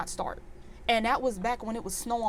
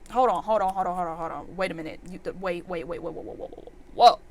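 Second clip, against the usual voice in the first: stunned hold on; 3 semitones lower than usual. Real, not acted. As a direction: stop him mid-list, fading into shock. Stopping mechanic's list in shock.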